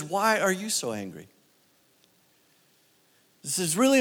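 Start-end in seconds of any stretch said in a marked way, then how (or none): 0.0-1.3 softer and lower, turned straight to the listener; softer, personal question. Shown as a demonstration. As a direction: ask it gently, one to one. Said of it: "So my question to you is".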